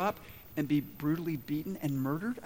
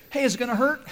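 high, louder nervous question; mock scared patient asking; worried patient, higher and louder; anxious patient; 8 semitones higher, 6 dB louder, faster than usual. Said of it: "And the guy says".

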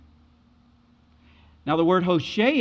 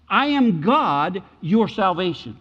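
proclaiming; 4 dB louder, slower than usual. Acted. Preacher proclaiming Jesus's claim.

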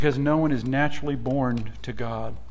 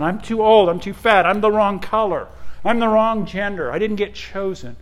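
put-on a touch higher and louder, sad children listing why they weren't chosen; higher, louder lament of orphans who weren't picked; rejected orphans lament; 5 semitones higher, 4 dB louder than usual. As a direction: voice the unchosen kids mildly.

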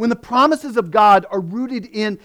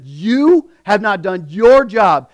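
accusing Moses; 6 dB louder, slower than usual. Retold or imitated. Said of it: "Moses said".

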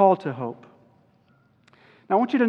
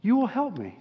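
confident quiet prayer. Retold or imitated. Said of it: "And I thought".

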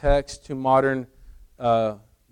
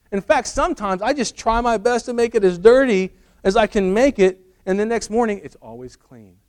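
high, loud, excited husband; hammed-up breathless-with-wonder storytelling; mock amazement; 6 semitones higher, 5 dB louder than usual. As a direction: marvel earnestly at the magic table, pitched up. Husband marvels at magic table.

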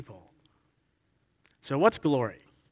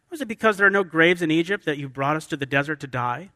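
mildly sarcastic accusing question. Acted. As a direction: put a bitter, sarcastic edge on the complaint. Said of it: "look, notice the sarcasm".

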